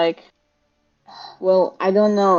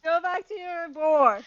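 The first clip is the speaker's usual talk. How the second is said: high voice; 7 semitones higher than usual. Pretend. Player in high voice.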